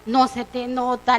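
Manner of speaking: slow, stretched teasing retort; echoed jab. Retold or imitated. Friend answering her the same way, teasing echo. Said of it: "le respondí de la misma manera".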